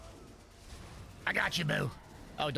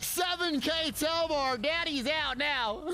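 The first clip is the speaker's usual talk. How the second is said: victory yell; 6 semitones higher, much slower than usual. Real, not acted. Streamer after winning the fight, shouting in triumph. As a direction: celebrate the kill at full volume. Streamer celebrating a big kill.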